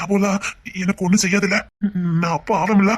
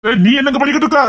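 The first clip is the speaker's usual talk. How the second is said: surprised call; 6 semitones higher, 5 dB louder than usual. Acted. Calling out, surprised.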